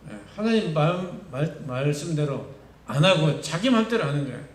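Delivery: usual speaking voice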